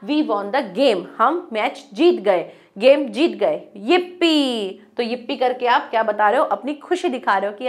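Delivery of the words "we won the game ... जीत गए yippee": joyful. Shown as a demonstration. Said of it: "खुशी को दिखाने के लिए".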